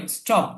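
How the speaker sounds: স্টপ with a plain, hard retroflex T; unaspirated T. Shown as a demonstration. Teacher shows a new word to students, স্টপ with unaspirated T. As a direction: say স্টপ without any puff after the T. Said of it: "এটার উচ্চারণ কি হবে?".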